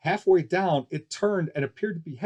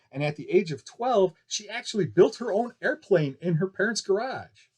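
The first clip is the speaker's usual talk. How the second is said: ballyhoo barker; 2 semitones higher than usual. Acted. Barker hyping the pilot to the crowd, showman voice. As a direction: sell the act like a carnival barker. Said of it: "The ballyhoo continued".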